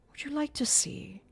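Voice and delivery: whispered sinister offer; taunting whisper. A narrator's reading. Eric taunting Christine, whispered. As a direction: breathe it as a threat.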